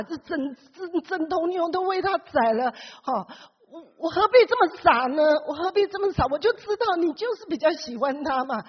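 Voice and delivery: mock-angry complaint, lightly acted; resentful son. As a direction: protest to father that it's unfair. Elder son complaining to father.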